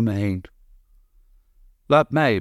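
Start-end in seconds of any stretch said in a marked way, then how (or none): 1.9-2.4 sharp bark, louder and higher; curt order, pushed out loud. Acted. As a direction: snap it out at the others. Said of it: "blaft zij".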